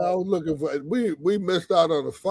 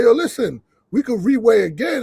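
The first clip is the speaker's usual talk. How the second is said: loud, pressing plea; urgent appeal; 4 semitones higher, 3 dB louder than usual. Retold or imitated. Manager urging the ring announcer, loud and pressing. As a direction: push hard to get her help.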